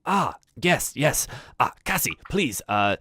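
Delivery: snooty butler, slowing right down at the end; slight disdain. Acted. Butler asks about commoner guests, with slight disdain. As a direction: draw out the last word with polite distaste. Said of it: "like, a slight disdain in his voice".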